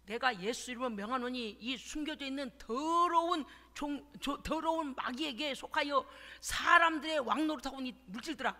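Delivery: firm decree building to a loud shouted 와라; authoritative prayer ending in a shout; bold command. Retold or imitated. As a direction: command the hidden wealth in Jesus' name. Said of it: "막 명령했어요".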